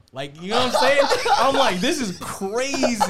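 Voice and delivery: high, loud laughing burst; laughing hard while telling the story. Real, not acted. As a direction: crack up mid-sentence.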